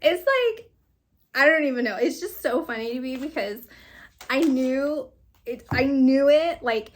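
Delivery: words spilling through real laughter; laughing. Real, not acted. Reader laughing at a card she saw coming. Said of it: "it just makes me laugh".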